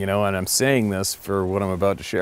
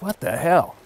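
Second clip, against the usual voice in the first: retold disbelief; 8 semitones higher than usual. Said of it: "I'm like".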